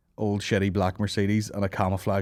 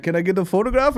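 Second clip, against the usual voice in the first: high, louder fan voice; pitched-up mock request; imagined fan; 9 semitones higher, 5 dB louder than usual. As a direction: play an eager fan asking a favour. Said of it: "And then he's like".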